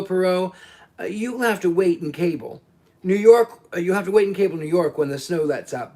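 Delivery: a hint of a cocky New York private eye; brash American detective. Hardman wrapping up his story for Poirot, lightly voiced brash American.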